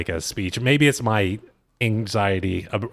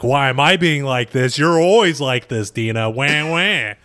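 louder mocking J Wow; mocking shout; 3 semitones higher, 3 dB louder than usual. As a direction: snap back at her mockingly. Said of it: "she's like".

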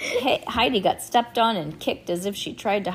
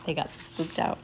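usual speaking voice

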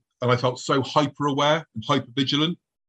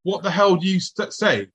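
higher-pitched, bewildered demand; alarmed question; 5 semitones higher than usual. Retold or imitated. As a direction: retell a startled outburst, pitched up. Retakes his question to passerby.

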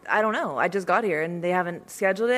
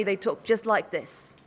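British accent; slower than usual. Shown as a demonstration. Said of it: "They literally talk like this".

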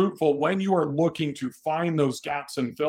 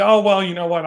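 surprised; 6 semitones higher, 9 dB louder than usual. Pretend. Owner voiced in a sales pitch.

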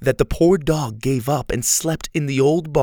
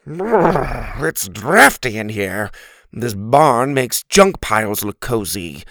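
louder, shivery complaint; grumbling turkey; 3 dB louder than usual. Acted. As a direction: shiver and gripe. Turkey complaining about drafts.

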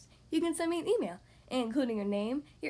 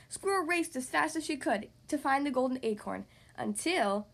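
put-on animated read-aloud to young kids; story narration; 2 semitones higher than usual. Podcast host reading to young kids, story narration. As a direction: read it like a lively picture-book narrator. Reads picture book to children.

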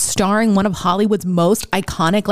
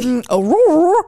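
Aurora higher, mock Australian; Australian accent; 8 semitones higher, 3 dB louder than usual. Shown as a demonstration. Friend keeps trying Aurora in a mock Australian accent. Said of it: "in an Australian accent".

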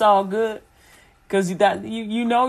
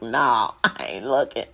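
lower, offhand father's brush-off; dismissive dad; 8 semitones lower than usual. Retold or imitated. Father tells grown son he won't peek, low brush-off. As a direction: wave it away like a dad who won't look. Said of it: "Pop's like".

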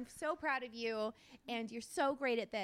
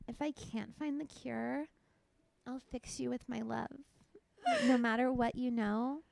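sweet tender read. Acted. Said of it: "really sweet".

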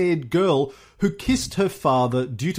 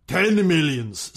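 Stalin impression; 2 semitones higher than usual. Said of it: "Stalin said".

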